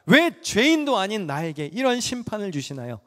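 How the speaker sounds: Job's rough complaint to God; rough protest. Acted. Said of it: "거칠게 항변합니다".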